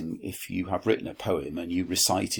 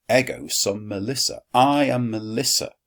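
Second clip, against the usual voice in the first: sassy; 4 semitones higher, 5 dB louder than usual. Acted. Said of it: "she looks quite sassy".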